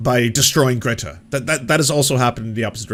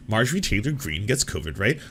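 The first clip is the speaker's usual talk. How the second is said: softer, rising disbelieving echo; incredulous repeat; 3 semitones lower, 5 dB quieter than usual. Shown as a demonstration. Echoing the headline back in quiet disbelief. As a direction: repeat it as if you can't believe it. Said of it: "Like, cartoonish".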